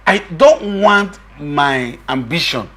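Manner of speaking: very slow, deliberate declaration; retold emphatic statement, drawn out; emphatic quote. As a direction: measure out each word for emphasis. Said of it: "he's been emphatic".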